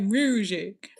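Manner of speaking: "Music" in an imitated Memphis accent; a Memphis rapper. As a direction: mimic a Memphis rapper saying "Music". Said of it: "that's how she says it".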